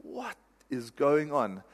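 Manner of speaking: slow, soft, baffled; bewildered mutter. Retold or imitated. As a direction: drag it out, lost and confused. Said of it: "you're just like".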